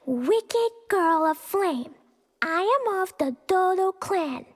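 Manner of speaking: lightly deepened menacing read, slow; a hint of a pompous villain reading; reading the villain's letter. Child reads the Dodo King's letter in a mock menacing voice. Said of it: "Let me read you the letter that Dodo King wrote".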